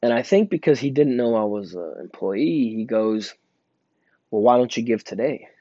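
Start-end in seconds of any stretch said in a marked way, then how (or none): 4.3-5.5 retold challenge, lifting at the end; mildly pushy, quoting the man; imitated pointed challenge. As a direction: put the question to him pointedly. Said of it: "that's exactly how he said it".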